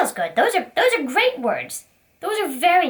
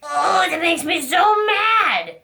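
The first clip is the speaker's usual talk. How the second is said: slow, louder, cross little outburst; mock angry shout; 3 dB louder, slower than usual. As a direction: stamp it out like a cross kid. Puppet reacts to toy snatched.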